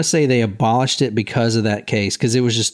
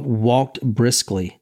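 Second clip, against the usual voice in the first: drawn out, sarcastic; mocking a defendant's excuse, slowly drawn out; slow mock quote; much slower than usual. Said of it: "He, quote".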